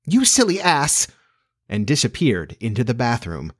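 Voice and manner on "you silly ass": high, drawn-out fairy voice; slow insult in a high little fairy voice; insolent fairy. A narrator's reading. Tink insults Peter, high and insolent. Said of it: "Tink replied these words".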